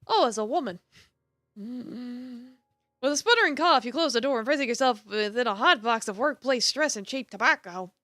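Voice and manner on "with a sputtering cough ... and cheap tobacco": measured, dramatic narrator reading; storyteller setting the scene; story narration. A narrator's reading. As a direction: narrate the scene with deliberate emphasis. Reads game narration aloud.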